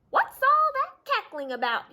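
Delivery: high, loud demanding duck voice. Acted. Ducky Lucky hearing the clamor, loud high demand. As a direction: demand an answer, squawking. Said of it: "he demanded".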